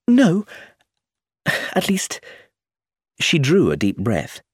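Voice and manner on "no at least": put-on lighter, higher young woman, quick; higher voice for Iris, asking to leave; young woman's voice. A narrator's reading. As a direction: Iris asking to slip away.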